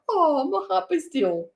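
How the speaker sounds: high, hammed-up lovestruck sigh; mock swoon. Neighbour reacting to bogan love declaration, mock high swoon. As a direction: swoon as if melted by romance. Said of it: "And I'm like".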